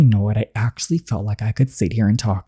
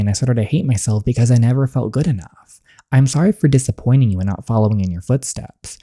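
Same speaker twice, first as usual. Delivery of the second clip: confessing to Ma with a breaking, whispered voice; tearful whisper. Acted. Daughter apologizing to her mother, tearful whisper. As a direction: whisper it through tears, barely holding together. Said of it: "Please don't cry".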